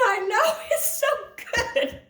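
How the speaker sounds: high, gleeful call breaking into laughter; re-enacted high-pitched shout; mock holler back. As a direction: holler it happily, laughing partway through. Acted shouted reply across the yard.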